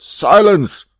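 high, very loud judge's shout; shouted command. A narrator's reading. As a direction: call the court to order at full voice. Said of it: "The presiding judge shouted".

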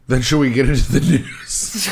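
snotty, stuffed-up laugh; talking through a blocked nose. Real, not acted. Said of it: "blow your nose right into the microphone".

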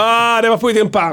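high, wailing fake last gasp; high put-on death cry; mock dying words. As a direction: ham up a dying man's accusation. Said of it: "det sista han säger".

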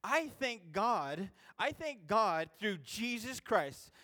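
slow, pained reading of the lament; slow lament, pounding his chest; anguished reading. Acted. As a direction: read it as a man crying out in despair. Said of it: "I'm gonna read it again".

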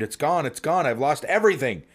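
high, panicky wail over lost work; frantic cry that everything is gone. Acted. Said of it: "searching frantically and screamed".

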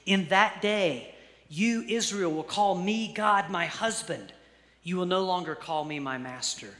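deliberate, emphatic Bible reading; scripture reading. Acted. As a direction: proclaim the verse phrase by phrase. Reads scripture aloud to congregation.

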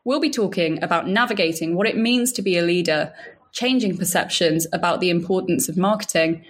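polished, even host read over music; podcast intro read. Acted. Host introducing the show and guest to listeners, in a scripted intro read.

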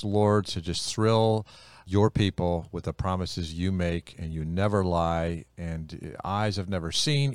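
heartfelt spoken prayer before teaching; earnest prayer. Real, not acted. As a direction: pray aloud with steady conviction, starting strong. Leads an opening prayer.

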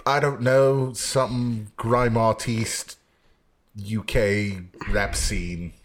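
slow, lightly held fake British accent; Stu. Host improvising as absent co-host, faltering mock British accent. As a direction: fumble along in a half-hearted UK accent. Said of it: "fake Stu accent".

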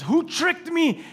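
high, drawn-out retold demand; upset. Preacher voices Isaac realizing he was deceived, upset. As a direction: act out a father's distressed question, slowly. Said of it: "He's upset".

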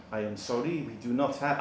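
lightly hammed French maître d'; half-hearted French accent; crap French accent. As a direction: badly imitate an apologetic Frenchman. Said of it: "crap im-, im-, impression of a Frenchman".

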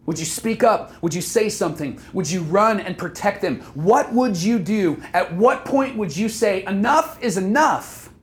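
impassioned, building run of questions; stirred up. Real, not acted. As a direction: press each question harder, rising in pitch by the end. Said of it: "that's what I feel".

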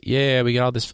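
lightly imitated excited guys; retold hype. Players hyped about the free food, retold hype. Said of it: "the guys were hype about it".

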